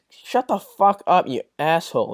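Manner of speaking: fed-up snap. Retold or imitated. Fed up with toxic people.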